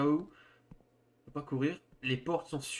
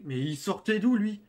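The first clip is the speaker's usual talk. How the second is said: surprised and louder; startled; 6 semitones higher, 6 dB louder than usual. Real, not acted. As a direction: caught off guard by the sudden character. Startled by sudden NPC.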